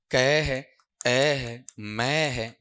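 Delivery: word broken into separate sounds, "क", "ए", "मैं"; sounds separated. Shown as a demonstration. Teacher breaking a word up for students, sounds separated. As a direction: say "क", "ए", "मैं" one isolated sound at a time. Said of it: "अलग करूं ना तो ऐसे टूटेगा".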